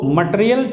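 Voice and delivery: "मटेरियल" starting muh, not may; short uh after the M in "मटेरियल"; schwa first syllable. Shown as a demonstration. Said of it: "अ है ना".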